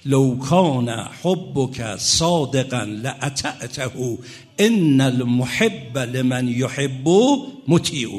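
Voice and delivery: slow, measured poem reading; Arabic verse recitation. Real, not acted. Preacher quoting the Imams' poem to listeners, slow recitation. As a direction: recite the verse with drawn-out syllables.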